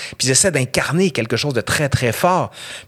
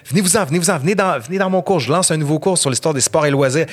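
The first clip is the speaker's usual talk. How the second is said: mock sales pitch; 4 semitones higher, faster than usual. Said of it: "pour dire".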